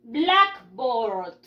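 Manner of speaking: "blackboard" with the A of board unpronounced; silent A. Shown as a demonstration. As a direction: model "blackboard" clearly, dropping the A in board. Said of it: "tacho la A y no pronuncio la A". ("blackboard" sin pronunciar la A de board)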